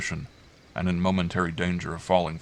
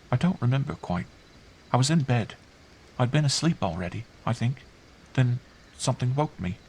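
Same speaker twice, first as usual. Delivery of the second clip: put-on high child voice, piecing it together; puzzled child; 6 semitones higher than usual. Girl recalling what woke her, puzzled. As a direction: recall it haltingly, as a small child.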